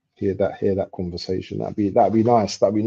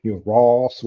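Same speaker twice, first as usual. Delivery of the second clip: imitating a Bajan insult; lightly put-on Bajan accent. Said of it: "what, what they say?".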